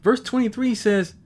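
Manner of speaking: excited scripture reading, tripping over the words; preacher carried away by the verse; getting excited. Real, not acted. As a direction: read it eagerly, getting ahead of yourself. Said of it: "I'm getting excited".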